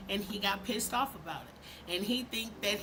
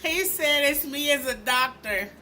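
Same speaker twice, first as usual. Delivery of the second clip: higher, louder mocking repeat; mocking disbelief; 4 semitones higher, 6 dB louder than usual. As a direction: repeat it as if about to burst out laughing. Incredulous laughing repeat of the clip.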